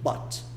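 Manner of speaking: "Bought" with silent GH; soft one-syllable "Bought"; simple pronunciation. Shown as a demonstration. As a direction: say "Bought" as "bawt", softly. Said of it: "Pronúncia dele super simples".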